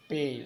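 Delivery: "पेल" set apart with a held vowel; stressed पेल. Shown as a demonstration. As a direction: say "पेल" alone as the stressed syllable. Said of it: "पेल में आपका stress है". ("पेल" पर बल)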